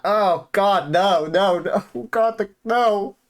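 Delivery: rising, loud cry of dread. Real, not acted. Player reacting to Shion's ominous line, loud pleading dread. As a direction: beg the story not to go there, pitch climbing.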